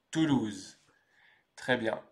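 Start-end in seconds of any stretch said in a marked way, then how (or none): 0.1-0.8 TOULOUSE said alone with falling pitch; TOULOUSE as an isolated French word; pronunciation demo. Shown as a demonstration. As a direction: model TOULOUSE for learners. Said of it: "Et on prononce donc".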